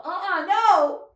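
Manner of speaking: playful fake fright; mock scared. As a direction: squeal no in pretend fright. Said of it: "I'll go".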